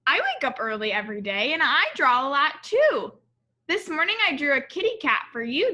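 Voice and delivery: put-on a small girl showing off a drawing; child voice. Child Alma voiced in story.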